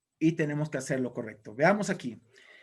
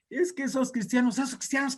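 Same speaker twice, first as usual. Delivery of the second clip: high, hammed-up whimpering complaint; tearful Satan; 8 semitones higher than usual. Satan complains to his demons about Christians, mock-tearful high voice. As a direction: play a bawling devil, pitched way up. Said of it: "otra vez empezó a llorar".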